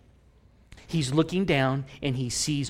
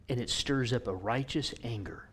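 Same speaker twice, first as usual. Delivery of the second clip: hushed, breathy whisper; 3 semitones lower, 7 dB quieter than usual. Real, not acted. Preacher whispering about God's anger. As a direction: let it fall to a whisper.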